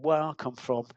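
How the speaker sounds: lightly voiced Cockney accent; a hint of Cockney, retelling the captain's words. Captain to young reporter, light Cockney accent. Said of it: "this is my Cockney accent".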